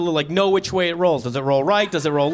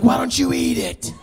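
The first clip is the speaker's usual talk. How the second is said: coaxing villager; 9 semitones higher than usual. Acted. Villagers urging the finder.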